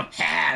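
quick imitated chuckle like Hank; imitating Hank's laugh. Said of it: "that's how he laughs".

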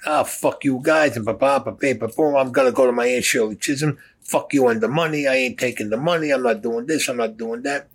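mock yelling. Charles yelling at Dominic, refusing the money, mock yell. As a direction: ham up an angry ranting guy. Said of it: "He starts yelling at Dominic".

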